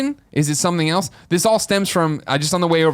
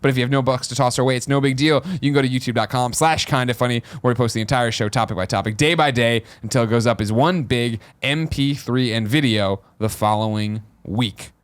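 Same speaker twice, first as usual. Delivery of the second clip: upbeat host plug read; show host announcer. Acted.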